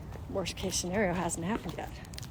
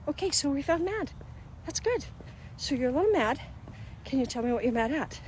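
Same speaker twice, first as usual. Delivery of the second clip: put-on soothing a child; 5 semitones higher, 3 dB quieter than usual. Parent praising child.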